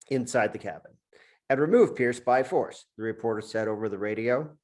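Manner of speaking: measured dramatic reading of a crime novel; story narration. A narrator's reading. Author reading his book aloud to the host, steady narration. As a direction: read it like a gripping thriller opening.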